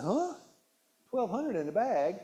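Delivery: a high startled "Huh?" then a disbelieving question; can't believe the number; astonished at the chip bag's calories; incredulous. Retold or imitated. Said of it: "I said".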